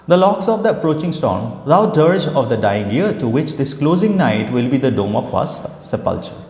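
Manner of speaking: slow, measured recitation in English; poem reading. Shown as a demonstration. Teacher reading the ode's lines to her students, slow and solemn. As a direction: read each line slowly, like a poem.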